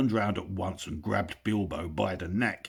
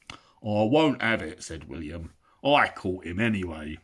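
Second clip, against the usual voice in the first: stubborn troll; 4 dB louder than usual. Acted. William troll.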